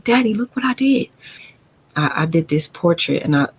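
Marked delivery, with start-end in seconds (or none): 0.0-1.1 put-on high, eager child proudly showing her drawing; little girl voice. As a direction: play herself as a small kid asking Daddy to look. Retold child speaking to father.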